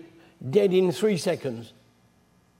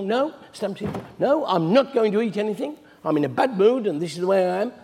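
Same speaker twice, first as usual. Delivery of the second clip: put-on spoiled child. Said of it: "acts like a spoiled child".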